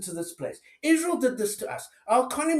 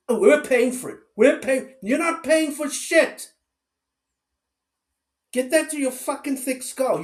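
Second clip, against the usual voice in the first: real anger, punching out the words louder; angry rant; 2 semitones higher, 4 dB louder than usual. Real, not acted. Ranting at the critic over US aid to Israel, real angry. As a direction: jab it straight at him, furious. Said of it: "Sorry, I get so angry".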